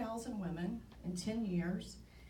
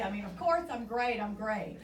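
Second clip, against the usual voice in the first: sarcastic I'm fine; 5 dB louder than usual. Retold or imitated. Ironic aside about being fine.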